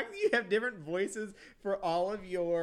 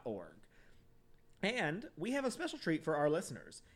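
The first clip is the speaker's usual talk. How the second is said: a lightly upbeat sponsor read. Acted. Reading the sponsor ad, lightly upbeat. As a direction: pitch the candy shop to listeners.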